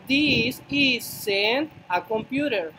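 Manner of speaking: this isn't a computer said very slowly; slow model sentence. Shown as a demonstration. Teacher to students, slow model sentence. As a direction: lay out each word for the class. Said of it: "Entonces yo digo".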